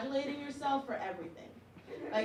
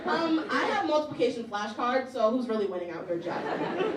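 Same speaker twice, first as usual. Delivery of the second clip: smug retort; 4 dB louder than usual. Retold or imitated.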